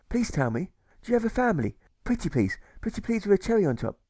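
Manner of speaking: sweetly begging. Acted.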